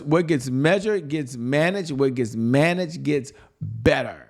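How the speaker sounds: slow, deliberate dictation of the motto; dictated slowly. Shown as a demonstration. Coach dictating the motto for sales notes, slow and deliberate. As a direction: spell out "measured" and "managed" so they can write it down. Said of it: "Put this in your notes".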